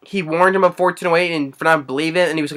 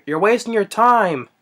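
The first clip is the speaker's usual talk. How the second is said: acted taunt; 6 semitones higher than usual. Retelling man taunting the room.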